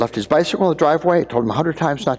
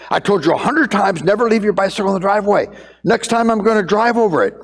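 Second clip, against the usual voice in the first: fast, higher-pitched exasperated scolding; angry scolding father; 5 semitones higher, faster than usual. Retold or imitated. Pastor imitating himself scolding his son over a bicycle, exasperated. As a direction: lecture the kid like a fed-up dad.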